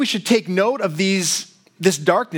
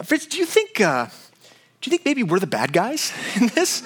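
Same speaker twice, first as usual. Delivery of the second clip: mock worried soldier; 5 semitones higher than usual. Acted comedy sketch soldier.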